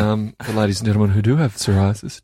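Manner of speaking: lightly voiced cabin announcement; air hostess voice. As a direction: address passengers like flight crew. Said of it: "What are you doing the air hostess voice for?".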